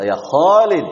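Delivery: Ya Khalid with a dark, heavy kho; wrong Khalid. Shown as a demonstration. Teacher shows the mistaken heavy Ya Khalid. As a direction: call Ya Khalid with a thick kho. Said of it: "Ini khata ini".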